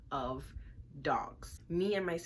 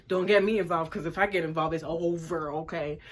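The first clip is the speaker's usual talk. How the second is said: louder, firm sister warning; sister's warning; 6 dB louder than usual. Retold or imitated. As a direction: back off before I step in. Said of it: "She's like".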